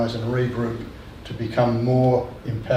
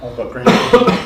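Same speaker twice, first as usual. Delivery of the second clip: choked up; 4 dB louder than usual. Real, not acted. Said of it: "I'm, I'm choking up".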